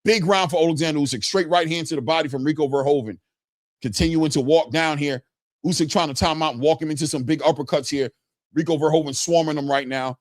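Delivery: steady live fight commentary; boxing play-by-play. Real, not acted. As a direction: call the punches as they happen.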